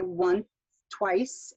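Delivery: "once twice" with the shared sound held longer; linked same consonants. Shown as a demonstration. Teacher demonstrating linking, held consonant between words. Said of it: "we just hold it a little bit longer".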